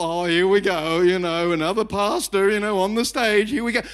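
weary, dismissive churchgoer grumble; lightly mocking, unimpressed aside; mock eye-roll. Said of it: "get the little eye roll".

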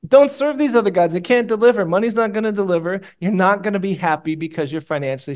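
loud, high, urgent preacher's warning; fiery preaching. Real, not acted. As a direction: plead with the crowd at full force.

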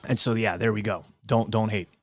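just swallowed a sip, relaxed; after sipping a drink. Real, not acted. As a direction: settle back after a sip. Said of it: "I'm drinking a Monster".

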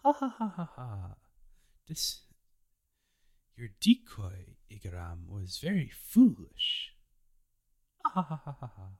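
high haughty laugh, then a cold dismissal; sneering femme fatale brushing off the decoy; mocking villainess laugh. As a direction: laugh him off like a smug villainess. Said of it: "dismisses, like".

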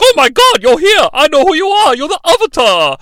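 very high-pitched, loud excited impression; Keymaker. Keymaker greeting the Avatar on arrival, hammed-up excitement. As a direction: put on an over-the-top, squealing awestruck voice. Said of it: "the actor that played the Keymaker".

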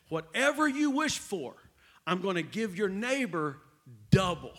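spring the twist on him, a touch of showman; genie's catch. Acted. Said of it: "He said".

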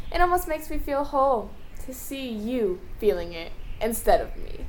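quiet menace; menacing hush. Acted. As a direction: let it sink to a hush. Villain fades menacingly.

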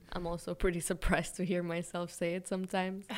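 words broken by a real laugh. Real, not acted. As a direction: laugh through it, amused at yourself. Amused at owning a brand.

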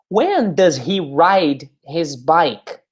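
"Who do they swim with?" said at half speed, each word spaced; slow teaching model. Shown as a demonstration. Teacher models the question slowly for the class, drawn out. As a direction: stretch every word out for learners. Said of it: "slow model question".

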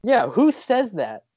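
incredulous. Real, not acted. Mocking announcer's phrase.

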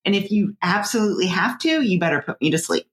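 retold stern mom telling off; firm, scolding orders to a youngster. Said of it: "you just pull out that mom voice".

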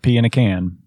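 pea in a can said as PEE-in-a-can; mock pea in a can. Shown as a demonstration. Teasing friends about pecan: mock spelling. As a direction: split pea in a can into its parts. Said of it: "It's pecan".

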